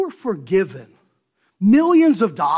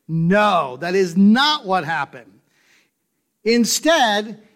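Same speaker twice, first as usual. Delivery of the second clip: ordinary talk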